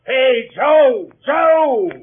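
loud, high call; shouting a name. Acted. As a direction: yell to wake him up. Shouting for the sleeping boy.

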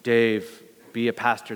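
a hint of a booming God voice; mock booming voice of God. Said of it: "this booming voice of".

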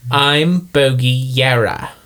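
slow, deliberate character accent; Bogey's character accent. Shown as a demonstration. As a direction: ease back into the character accent. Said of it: "You have to get it back".

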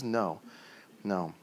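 low, soft, measured no; hushed and final; quiet refusal. Acted. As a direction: answer softly and low, with pauses. God's answer acted in prayer.

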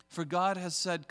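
ordinary talk, nothing marked

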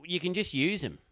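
high-pitched drunk girl imitation. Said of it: "this drunk girl goes".

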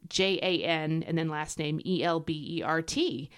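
letter by letter; slowed-down spelling. Shown as a demonstration. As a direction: spell the name out deliberately. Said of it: "I gotta slow down".

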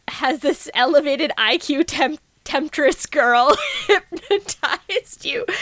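a touch of a pompous jock; slow, overblown quoting of Chad; voicing Chad.

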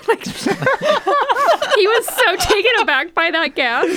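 can barely get it out for laughing. Real, not acted. Laughing while retelling reaction.

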